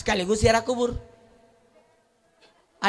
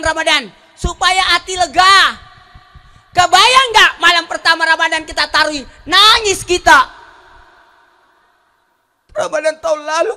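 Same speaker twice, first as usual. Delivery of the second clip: loud, high preaching; impassioned sermon; 6 semitones higher, 7 dB louder than usual. Acted. Preacher stirring grief about dead parents, loud. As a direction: pour feeling into it, louder.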